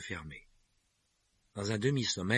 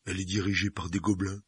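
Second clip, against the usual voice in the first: giant voice; 3 dB louder than usual. A narrator's reading. Hagrid explains.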